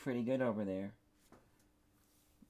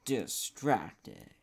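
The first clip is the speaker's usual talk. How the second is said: game title call; 2 semitones lower than usual. Pretend. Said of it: "video game title".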